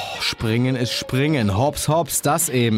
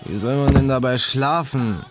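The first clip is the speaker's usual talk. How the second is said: higher-pitched, indignant question; mildly exasperated, pitch raised; exasperated complaint; 4 semitones higher than usual. A narrator's reading. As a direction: complain to the roommate who keeps waking you. Narrator's complaint to noisy roommate.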